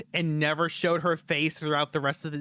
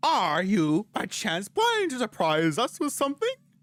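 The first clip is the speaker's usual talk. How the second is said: goofy, high, swooping clown voice; 6 semitones higher than usual. Voicing a character in a game: clown voice. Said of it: "I wasn't going for clown voice, but it kind of works".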